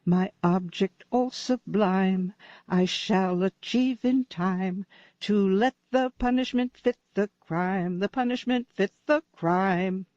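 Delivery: half-sung recitation of a comic opera lyric; grand poetic recital to impress a date; reciting poetry. Acted. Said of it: "quoted poetry".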